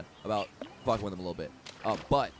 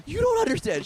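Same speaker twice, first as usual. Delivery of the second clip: hammed-up panic, very high and loud; freaking out; 7 dB louder than usual. Woman explaining herself to the prankster, loud imitated freak-out. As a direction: imitate a frantic, high-pitched outburst. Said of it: "She starts freaking out".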